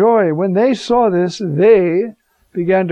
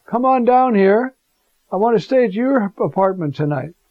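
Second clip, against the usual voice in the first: a friendly summons from the street below; the Pope calling up; 3 semitones higher than usual. Pretend. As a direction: beckon him down, unhurried. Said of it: "looks up at your window and says".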